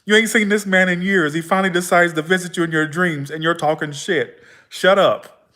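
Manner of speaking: loud, high mock rant, laugh at the start; comic telling-off that bursts out high and eases down; exasperated self-scolding. Scolding herself for back-talking grandfather.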